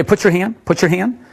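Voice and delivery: a touch impatient, said twice; mildly irritated repeat, not angry; slightly perturbed. Shown as a demonstration. Magician showing the volunteer his mildly perturbed instruction. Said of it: "I say it twice, a little slightly perturbed".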